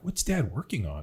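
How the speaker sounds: lightly voiced child asking mom; little kid asking. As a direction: ask it like a curious small boy. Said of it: "as a little kid".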